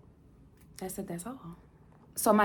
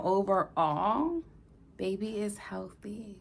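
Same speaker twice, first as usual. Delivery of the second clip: slow reassuring; slower than usual. Real, not acted. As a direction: tell them gently, taking your time. Slow reassuring news to viewers.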